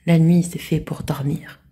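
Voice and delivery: slow whispered quote of the boss; quoting the boss. Retold or imitated. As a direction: mimic the old boss's rule, slowly. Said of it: "une chef quand j'étais interne qui disait toujours".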